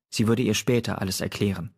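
ordinary delivery

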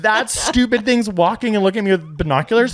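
high-pitched, dismissive bird voice; sassy bird. Acted. Bird scorning the walker with binoculars, high sassy voice. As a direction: voice a cocky bird in a high register.

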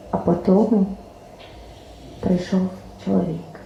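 lyrical verse reading with voiced dialogue; poem recital. Poet recites to the audience, lyrical storytelling. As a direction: read it like a sad folk parable.

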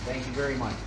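chewing while talking; eating cereal. Real, not acted. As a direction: mouth full of cereal. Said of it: "I'm eating cereal right now".

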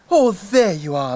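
clucking hen. Acted. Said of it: "clucked Mother Hen".

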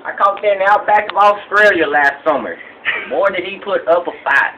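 rambling backwoods trophy-room tour guide; lightly voiced country hunter; hillbilly hunter character. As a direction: play a proud, dim redneck hunter showing off.

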